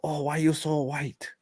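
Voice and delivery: crudely faked Asian accent; mock Asian accent. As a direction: put on a caricatured Asian accent. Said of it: "like, an Asian accent".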